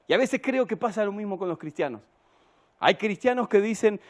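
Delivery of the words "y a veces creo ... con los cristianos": ordinary talk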